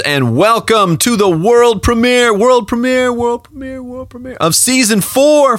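high, slow hyped announcement; hype man. Acted. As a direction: hype it up like an energy drink ad. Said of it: "I'm my own hype man".

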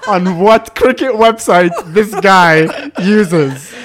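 slow, weighty delivery with laughter; dramatic inner thought. Retold or imitated. Speaker to himself while looking at nervous guy, slow mock dread. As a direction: spell it out slowly in mock dread.

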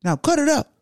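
commanding high shout over back-and-forth talk. Acted. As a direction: raise your voice to cut through a hyped room. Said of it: "that leader gonna raise his voice".

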